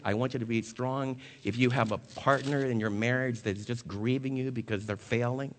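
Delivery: rising insistent sermon refrain; preaching build. Acted. Preacher urging the congregation, building sermon refrain. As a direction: press each "I want you to be strong" harder. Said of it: "preaching build, repeated charge".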